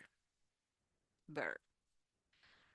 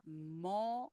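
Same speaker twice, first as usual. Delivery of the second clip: "Amores" softly broken into a, mo, res; syllable by syllable; 8 dB quieter than usual. Shown as a demonstration. Teacher breaking amores down for learners, syllable by syllable. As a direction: pause between each syllable of "Amores". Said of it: "here the R is like the flap T".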